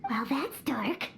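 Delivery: hushed, breathy deadpan remark; whispered aside. Acted. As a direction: mutter it under your breath, unimpressed.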